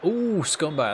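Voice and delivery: loud, high outburst at the foul; angry shout. Real, not acted. Gamer yelling at opponent's foul, real angry shout. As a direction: yell it at the cheating player.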